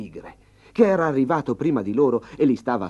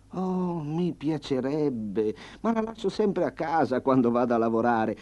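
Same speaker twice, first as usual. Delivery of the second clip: lightly voiced farmer; 4 semitones higher than usual. The farmer stalling the hungry tiger, higher and sweet. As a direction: sweetly dodge the request.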